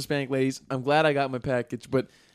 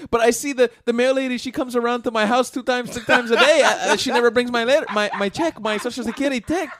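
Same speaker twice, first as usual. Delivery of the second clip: much higher Hispanic accent imitation, complaining; 8 semitones higher, 3 dB louder than usual. Older lady tells the post office worker about her check, high Hispanic accent. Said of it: "I can do this accent".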